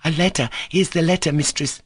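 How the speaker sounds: breathless joy. A narrator's reading. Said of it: "breathless and joyful".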